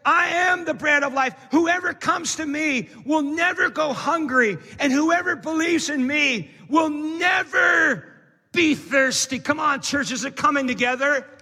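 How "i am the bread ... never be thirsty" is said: preached declaration. Acted. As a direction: proclaim it to the whole church. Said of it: "Then Jesus declares".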